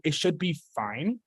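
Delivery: should drawn out and rising, slow; stress on should. Shown as a demonstration. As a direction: lean hard on should, then ease off on be fine. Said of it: "big emphasis on the word should be fine".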